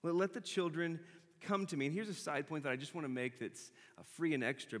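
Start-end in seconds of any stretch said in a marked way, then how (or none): 0.0-1.9 indignant Jesus. Retold or imitated. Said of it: "he turned to the disciples like".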